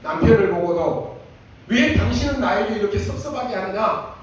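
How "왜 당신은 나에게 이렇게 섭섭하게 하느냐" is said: higher complaining plea; mock grumbling to God; whining prayer. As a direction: imitate a self-pitying prayer. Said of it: "그렇게 기도했어요".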